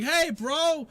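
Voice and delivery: high, loud whiny call to a friend; whiny npc shout. Acted. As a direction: yell it like a sore loser. NPC calls to the shopkeeper.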